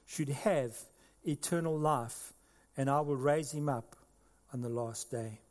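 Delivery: measured, solemn reading of scripture. Acted. Preacher reading John to the congregation, solemn.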